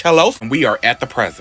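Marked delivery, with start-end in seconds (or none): 0.0-0.3 louder, rising second hello; sing-song taunt. Retold or imitated. Vampires taunting Betty with a louder rising hello.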